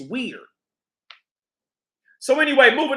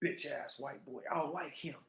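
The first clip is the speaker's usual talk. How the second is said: muttered under breath; 5 semitones lower, 17 dB quieter than usual. Real, not acted.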